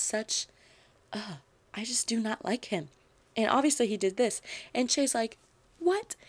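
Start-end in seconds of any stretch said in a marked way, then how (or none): 5.8-6.2 high-pitched incredulous question; retold shock. Shay learns who outed them, retold shock. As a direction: imitate stunned disbelief, pitch jumping up.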